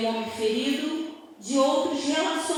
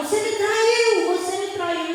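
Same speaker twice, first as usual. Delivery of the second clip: acted-out, repeated yelling outburst, raised and high; 7 semitones higher, 4 dB louder than usual. Retelling how the husband grabbed and shook the speaker: imitating someone shouting. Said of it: "começou a gritar".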